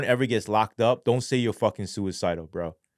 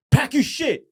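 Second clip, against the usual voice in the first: high, loud mock guard bark; guard ordering an inmate to pack up, loud mock bark; guard command; 6 dB louder than usual. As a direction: snap it like an officer giving orders.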